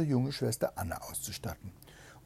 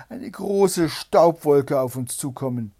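excited calling; 2 semitones higher, 10 dB louder than usual. A narrator's reading. Sister calls news from tower.

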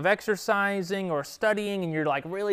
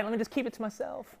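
quiet passive aside; 2 semitones higher, 7 dB quieter, faster than usual. Retold or imitated. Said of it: "it's not good for me to be like".

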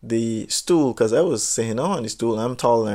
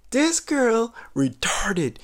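unvoiced, slow whispered aside; 10 semitones higher, much slower than usual. Telling everybody watching in a slow whisper. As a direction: lean in and whisper it. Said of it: "stage aside to the crowd".

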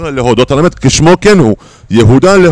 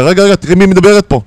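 fast, raised-voice comeback at wife; heated retort; 5 semitones higher, faster than usual. Retold or imitated. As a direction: throw it back at her, irritated. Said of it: "ואתה אומר לה". (תגובה עוקצנית ונרגזת לאישה)

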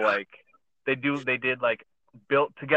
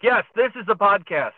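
higher, louder announcer read; podcast host voice; 8 semitones higher, 7 dB louder than usual. Shown as a demonstration. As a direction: put on the official podcast voice. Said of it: "I'll go in spurts of".

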